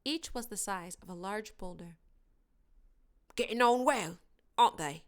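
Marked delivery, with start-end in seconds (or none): 3.3-5.0 happily. A narrator's reading. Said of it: "said Hagrid happily".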